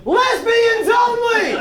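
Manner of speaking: high, long-drawn call to a crowd; stretched, high-pitched holler. Retold or imitated. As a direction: imitate someone hollering an announcement across a room. Retells photographer calling out to group.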